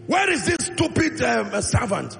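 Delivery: mock irritated demand, pitched high at the start; bad-tempered master calling out for his servant; temperous master. Elijah demanding his servant who washes his hand, mock angry. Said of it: "He was a temperous man".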